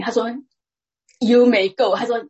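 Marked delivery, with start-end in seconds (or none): 1.2-2.0 louder, clipped judge voice with the stress on you; the judge cutting her off for good; firm judge dismissal. Retold or imitated. Judge silencing the woman again, louder and firmer. 讲了三次.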